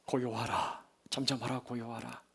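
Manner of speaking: low, very soft repetition; hushed command. Acted. Jesus stilling wind and sea, low hushed command. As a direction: let the command sink into stillness. Storm command repeated softly.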